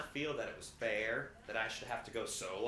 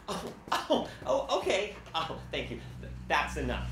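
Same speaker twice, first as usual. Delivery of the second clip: flustered mother; 3 semitones higher, 6 dB louder than usual. Retold or imitated. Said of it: "concerned look on her face and said".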